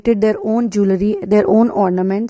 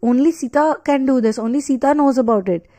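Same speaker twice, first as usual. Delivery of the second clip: awed realization; 4 semitones higher than usual. Retold or imitated. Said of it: "He's like".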